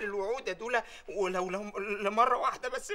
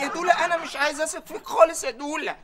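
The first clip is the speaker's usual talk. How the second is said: squeaky, louder comic outburst; high mock blurt; 6 semitones higher, 6 dB louder than usual. Employee blurting to his boss, in a squeaky loud voice.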